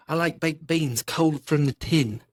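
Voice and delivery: slow, lightly put-on British accent; a half-hearted try at sounding British, slow; mock British accent. Shown as a demonstration. Friend tries a British voice for his pal, a lightly mock British accent. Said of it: "I don't know what you could sound like".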